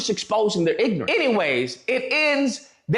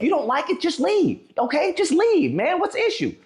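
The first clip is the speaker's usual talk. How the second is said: raised mock; mocking outrage; 6 semitones higher than usual. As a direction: scoff at their logic. Mocking the 'just leave' line.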